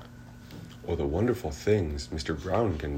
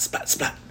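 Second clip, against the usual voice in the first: lightning spat. A narrator's reading. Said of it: "He makes lightning spat".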